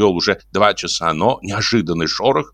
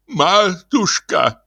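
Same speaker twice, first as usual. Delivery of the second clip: very slow, high, sugary endearment; cooing, humble priest's address; tender fawning; 11 semitones higher, much slower than usual. Acted. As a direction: stretch the word out adoringly. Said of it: "умилялся отец Фёдор".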